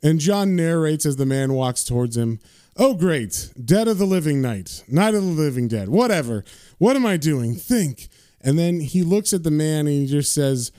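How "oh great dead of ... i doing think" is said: exasperated self-talk. Retold or imitated. John's exasperated inner narration.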